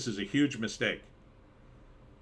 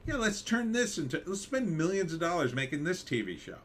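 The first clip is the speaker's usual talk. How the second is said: mock studio exec; 6 semitones higher than usual. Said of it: "and they're like".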